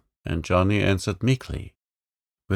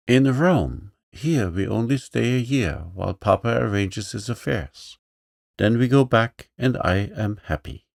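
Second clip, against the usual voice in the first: put-on bold little girl; 3 semitones higher, 3 dB louder than usual. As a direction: play the lively young princess, pitched up. Girl's lines.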